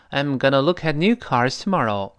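connected "I'm gonna", words linked through to tomorrow; fast reading. Shown as a demonstration. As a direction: read it linked, "look at" as loo-kat. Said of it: "那我们读快的是".

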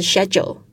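"schedule" with an "sh" start, like "shed-yool"; British pronunciation. Shown as a demonstration. Teacher giving the British "schedule" to her class, clearly. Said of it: "这个在英式的念法是schedule".

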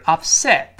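upset with the t barely heard; final t nearly silent. Shown as a demonstration. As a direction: swallow the t at the end of upset. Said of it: "读快了，发音有个变化". (upset末尾的t几乎听不到)

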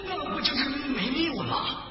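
hesitant, faltering tiger voice; scared tiger. Acted. Tiger afraid fox will abandon him, hesitant worried voice. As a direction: stammer your doubts timidly. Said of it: "老虎还是挺害怕的".

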